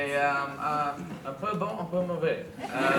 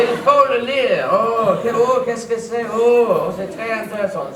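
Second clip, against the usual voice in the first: mock gushing reader; 4 semitones higher, 8 dB louder than usual. Mock reader gushing over magazine.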